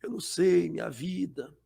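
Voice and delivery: hushed, whiny victim lament; soft self-pitying whimper. Retold or imitated. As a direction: sigh out the self-pity softly. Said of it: "solta algumas palavras baixinhas de vitimismo".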